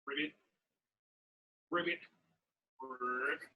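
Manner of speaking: short croaked ribbits, ending low; frog croak. Pretend. Leader asking what animal am I, low frog croaks. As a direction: imitate a frog, letting the last croak sink. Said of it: "I'm a frog".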